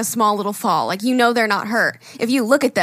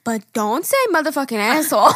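put-on little girl; 4 semitones higher than usual. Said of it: "And then she goes".

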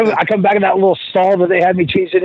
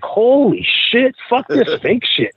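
stunned pained outburst; 5 semitones higher, slower than usual. Retold or imitated. Pain after punch.

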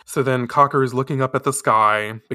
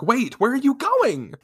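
high, drawn-out call; acted calling after; 11 semitones higher than usual. Hime calling after the fleeing cat, acted call. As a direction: call after someone running off.

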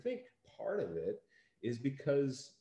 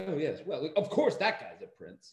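a touch higher, plummy British aristocrat; posh British accent; 6 semitones higher, 5 dB louder than usual. Shown as a demonstration. Actor demonstrating the prince voice, plummy British accent. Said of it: "then it's like".

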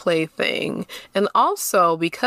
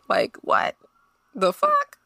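shrieking disbelief, much higher; incredulous; slower than usual. Real, not acted. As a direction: squeal it in outrage. Outraged disbelief at Lynn.

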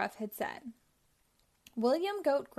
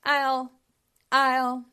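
loud, stuck on the words; troll too angry to finish his threat; sputtering; 8 dB louder than usual. Acted. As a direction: splutter with rage, no words coming. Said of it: "I sputtered".

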